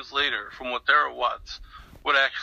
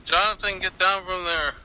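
raised, higher-pitched mock yell; retold yelling; 6 semitones higher, 3 dB louder than usual. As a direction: call up to someone climbing, without a full shout. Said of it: "I started yelling".

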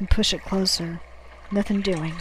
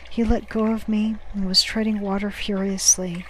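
usual speaking voice

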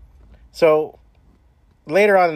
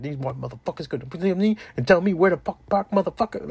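coworkers venting; 5 semitones higher than usual. Retold or imitated. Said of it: "they're just like".

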